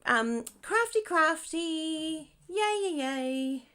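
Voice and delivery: high, sing-song gushing at a friend; playful gushing. Retold or imitated. Teasing friend Janelle about her card, gushing. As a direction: gush like you're asking a crafty friend. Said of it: "I was like".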